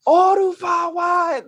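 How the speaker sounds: drawn-out, high-pitched shout of a Japanese anime voice; Endeavor in Japanese. Acted. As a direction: yell it long like a Japanese voice actor. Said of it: "I read that in Endeavor's B A voice in Japanese".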